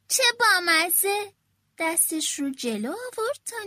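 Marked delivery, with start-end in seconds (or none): 0.1-1.3 slow, high and louder, charmed by something cute; delighted little girl. A narrator's reading. Mino cooing over the tiny creature, slow and delighted. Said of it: "مینو گفت".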